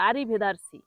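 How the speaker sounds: wrong-way demo of আরিভেদারসি, "dar" for "der"; common mispronunciation. Shown as a demonstration. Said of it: "বলে".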